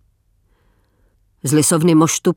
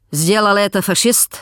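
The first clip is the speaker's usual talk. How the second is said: Russian officer; 3 semitones higher than usual. Acted. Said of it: "zeptal se důstojník".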